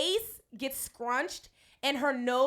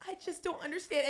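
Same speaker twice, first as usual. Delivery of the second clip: mock crying; 5 semitones higher than usual. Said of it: "you love to say".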